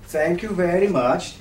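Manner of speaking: fake Norwegian accent. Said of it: "I am fake Norwegian".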